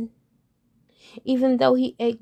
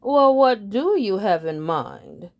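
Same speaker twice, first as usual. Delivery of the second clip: slow, louder, prim question; lightly voiced lead bird; 4 dB louder than usual. Lead bird questioning the frog, slow and prim. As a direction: ask down the nose.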